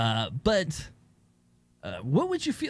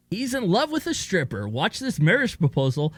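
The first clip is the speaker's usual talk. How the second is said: news anchor voice; 6 semitones higher than usual. Pretend. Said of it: "Don't know why I'm doing this voice now".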